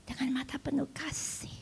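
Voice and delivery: hushed whisper, leaning in. Acted. Preacher whispering to the church about a loving gaze. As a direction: breathe it softly, tenderly.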